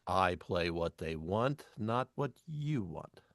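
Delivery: slow, measured retort; firm explanation. Retold or imitated. DJ answering a guest who questions the music, slow and firm. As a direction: spell it out slowly, word by word.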